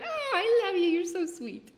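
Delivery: high, teary, laughing through tears; overwhelmed by kind comments; touched, teary. Real, not acted. Thanking a viewer who called her an angel, laughing through tears.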